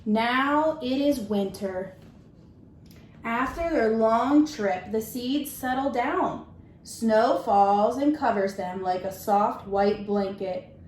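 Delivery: gentle, measured storybook reading; reading to children. Acted. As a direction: read it like story time for a class. Teacher reads picture book aloud.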